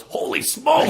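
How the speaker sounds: very high, loud comic cry; mock astonished shout. Infant sits up in runaway carriage, high astonished mock shout. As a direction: squeal it out as a hammed-up catchphrase.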